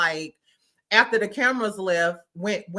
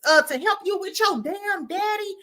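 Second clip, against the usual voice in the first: imitating Quad; 9 semitones higher than usual. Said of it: "Girl, she was like".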